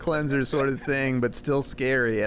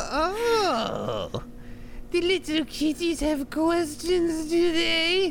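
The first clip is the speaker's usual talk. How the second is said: very high storybook witch voice. Wearing a Jason mask, answering friends' questions in a witch voice. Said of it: "Why are you doing a witch voice".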